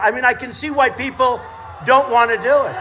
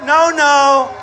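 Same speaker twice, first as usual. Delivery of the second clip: shouting at cameras. Real, not acted. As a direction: order the cameras round.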